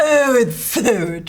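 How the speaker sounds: English girl's answer, lightly put on. English girl answers the American on the street, put-on accent. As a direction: play an English girl being asked. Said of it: "Do you find my American accent".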